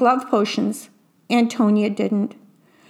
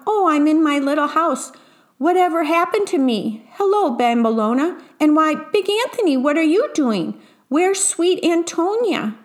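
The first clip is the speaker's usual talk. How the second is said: higher, lilting storybook puzzlement; bewildered surprise; 6 semitones higher than usual. A narrator's reading. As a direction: look around puzzled, greeting each person in surprise. Witch returns, bewildered.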